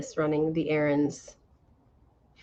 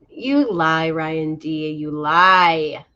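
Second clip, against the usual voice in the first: playful accusation; 2 semitones lower, 7 dB louder, much slower than usual. Real, not acted.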